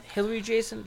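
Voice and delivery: mock incredulous. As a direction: pitch jumps up on Jason in fake shock. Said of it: "with two L's and an I E".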